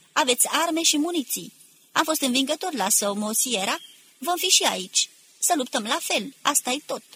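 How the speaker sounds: short, firmly projected sentences; loud, deliberate address. A narrator's reading. Manuel promises discipline and food to the men, calling out. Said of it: "să strige cu glas tare, dar foarte rar".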